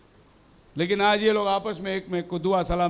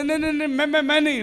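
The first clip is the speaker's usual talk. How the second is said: higher, flustered stammer; stammering denial; 4 semitones higher, faster than usual. Acted. The seller stammering his innocence, pitched higher. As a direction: stumble over मैं repeatedly. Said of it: "दोनों तोतला है".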